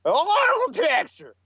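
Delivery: stiff repeated machine line; imitating the model. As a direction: say it like a stuck robot. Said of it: "He kept saying it just like that".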